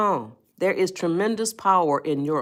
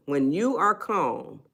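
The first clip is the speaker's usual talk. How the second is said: slow, soft delivery; unhurried calm demo; 3 dB quieter, slower than usual. Shown as a demonstration. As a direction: ease into it slowly.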